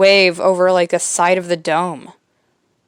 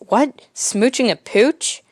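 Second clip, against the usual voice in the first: baffled; 4 semitones higher than usual. Retold or imitated. Jimmy baffled by expression.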